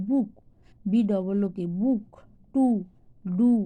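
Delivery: বুক, টু, ডু with an "oo" vowel; spell, then say বুক, টু, ডু apart with "oo". Shown as a demonstration. Teacher showing O pronounced "oo" in বুক, টু, ডু. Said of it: "আর যখন উ হয়".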